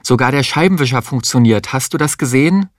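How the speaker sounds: mild excited voice, rising at the end; a touch of boyish glee over the noise; excited shout. Acted. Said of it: "Er schrie begeistert gegen den Lärm an". (leicht begeisterter Ruf)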